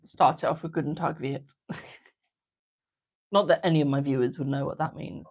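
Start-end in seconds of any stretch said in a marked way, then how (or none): 0.7-1.5 German greeting. Pretend. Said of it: "So tempted to start off".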